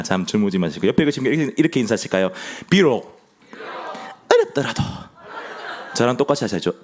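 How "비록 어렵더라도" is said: squeaky, much higher mock elder voice; elder impression. Shown as a demonstration. Preacher leads the congregation in aping Elder Baek, high squeak. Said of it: "백은철 장로님 따라하시는 겁니다".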